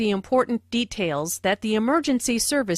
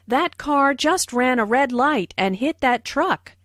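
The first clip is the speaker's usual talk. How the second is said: energetic demonstration sentence; lively, emphatic exclamation; lots of energy; 3 semitones higher than usual. Shown as a demonstration. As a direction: say it with plenty of energy. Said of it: "said with a lot of energy".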